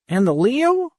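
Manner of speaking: put-on high, frightened boy's question; fearful question. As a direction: ask it trembling with fear. Andy asks anxiously.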